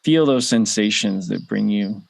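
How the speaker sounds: unhurried meditation guide with long pauses; measured guided-visualization delivery, spaced-out phrases. Real, not acted. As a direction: lead listeners gently through it, leaving room to breathe.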